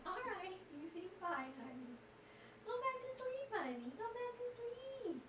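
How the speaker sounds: high, soft cooing to a pet; soothing a pet. Real, not acted. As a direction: coo gently to settle her down. Talking softly to sleepy pet.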